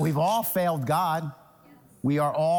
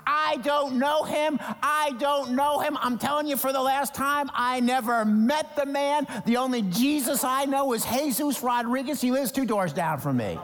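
higher, insistent denying voice; panicky denial; 6 semitones higher than usual. Retold or imitated. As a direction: deny him in a hurry, pleading.

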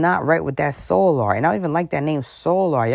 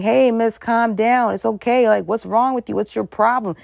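mock concerned bystander; 5 semitones higher than usual. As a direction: play a passerby soothing an upset woman. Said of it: "nobody's saying".

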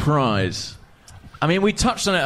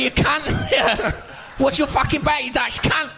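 hammed-up London lad picking a fight; mock Cockney threat to a Dutch teammate; Ray Parlour impression; 10 semitones higher than usual. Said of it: "Ray Parler's like".

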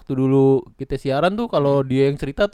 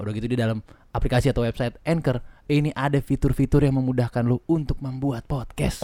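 ad read. Acted. Sponsor ad read.

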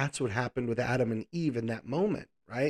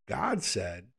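ordinary talk

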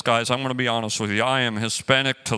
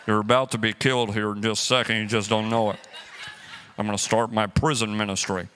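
low, laughing mock menace; joke-threaten the lady while chuckling; laughing fake menace; 4 semitones lower than usual. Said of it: "and I'm like".

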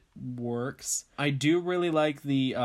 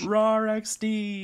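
silly rawr; 7 semitones higher, 4 dB louder, slower than usual. Pretend. Echoing the monster rawr.

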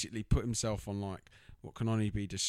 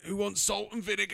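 much higher, chirpy mock offer; cheery husband; 11 semitones higher, 3 dB louder than usual. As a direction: sing it out like a cheerful host. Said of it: "he's like".

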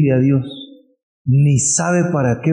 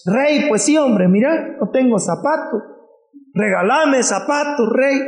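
higher, insistent begging voice; pleading beggar; 10 semitones higher than usual. Acted. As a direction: beg the king for shoes. Beggar begging the king again.

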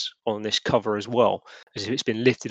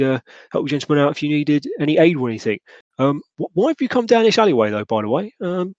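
lightly voiced constable, hesitant with ums; mildly put-on junior policeman voice; chiming-in constable; 4 semitones higher than usual. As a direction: feel your way politely through the explanation. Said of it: "He's like".

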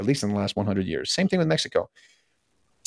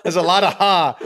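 laughing out loud, higher and louder; 8 semitones higher, 7 dB louder than usual. Real, not acted. Laughing with the co-host over the slip, real laughter. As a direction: break up laughing mid-line.

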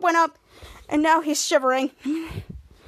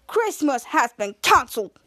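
lightly imitated Russian accent. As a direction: retell it with a mild Russian accent. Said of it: "speaking Russian with the translator".

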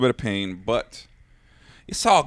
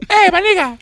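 put-on high, loud caricatured Hispanic accent; mock Hispanic accent; 6 dB louder than usual. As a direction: squawk it in a hammed-up Hispanic accent. Joking put-on Hispanic accent bit.

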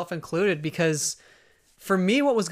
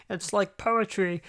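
slow, half-hearted filmmaker impression; drawn-out attempt at a famous quote; lightly imitated director, taking it slowly; badly faked George; 3 semitones higher, slower than usual. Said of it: "I can't do his voice".

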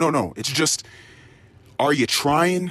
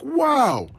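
mock wow; 13 semitones higher than usual. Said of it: "I'm like".

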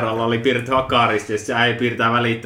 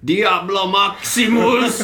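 high, drawn-out retold shout; hammed-up, slow possessed cry; mock possessed yell; 6 semitones higher, much slower than usual. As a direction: imitate someone hollering Latin, stretching every word. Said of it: "Se oli huutanut jotain".

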